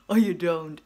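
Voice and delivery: cheeky whispered aside; a sly whispered jab. Real, not acted. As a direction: tease them in a whisper.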